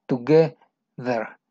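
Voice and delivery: together drawn out slowly with a buzzing th; slow voiced th. Shown as a demonstration. Teacher slowly models together. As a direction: stretch together, vibrating the th. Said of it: "esta sí la vibras".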